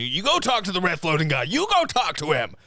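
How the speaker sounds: lightly voiced movie hero giving advice; Hawkeye impression. Host doing Hawkeye for his co-host, lightly voiced. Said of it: "my best Hawkeye impression".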